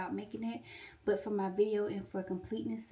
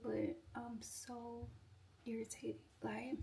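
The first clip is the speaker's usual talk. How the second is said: irritated; 2 semitones higher, 9 dB quieter, slower than usual. Real, not acted. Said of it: "I'm irritated".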